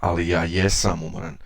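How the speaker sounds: jesam pushed out with quick extra weight; emphasis on jesam. Shown as a demonstration. Teacher showing emphatic jesam, quick and pressed. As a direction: hit jesam to insist you really are. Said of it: "used to add extra emphasis to the statement".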